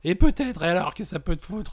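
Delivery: high, loud acted outburst; belligerent drunk. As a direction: challenge the policeman like an angry drunk. Ivrogne provoque le policier. (ivrogne agressif, voix haute)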